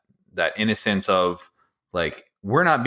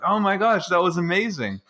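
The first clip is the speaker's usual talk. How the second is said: much higher, thrilled exclamation; excited reaction; 10 semitones higher than usual. Retold or imitated. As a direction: gush like a friend who just saw something great. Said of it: "and we're just like".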